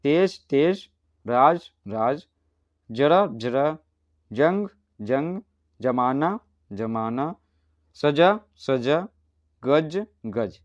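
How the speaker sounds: each pair spoken slowly, the second word with a z sound for the nukta; reading word pairs aloud. Shown as a demonstration. Teacher reads word pairs for the class, contrasting nukta sounds. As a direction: read "तेज तेज" twice, first with a plain j sound, then with a z sound for the nukta. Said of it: "तो पहले बोल बोल कर पढ़ते हैं".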